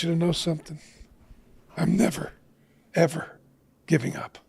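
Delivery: soft, quiet words through tears, fading almost to nothing; tearful retelling. Retold or imitated. Father to silent daughter in the car, tearful and hushed. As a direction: let it crack and sink as you confess failing her. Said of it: "and I just start to weep".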